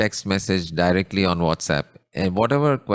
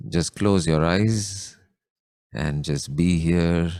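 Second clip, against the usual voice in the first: calmly guiding a contemplation, pausing between phrases; guided meditation; 2 semitones lower than usual. Real, not acted. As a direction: ease listeners inward with unhurried instructions and long pauses. Leads a closed-eye meditation.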